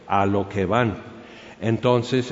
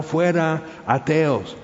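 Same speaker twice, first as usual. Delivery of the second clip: higher, restrained imitation of a shouting crowd; mock crowd shout; 5 semitones higher, slower than usual. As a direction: chant it like a mob, only half shouted. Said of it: "la multitud está gritando". (imitando gritos de multitud, a medio volumen)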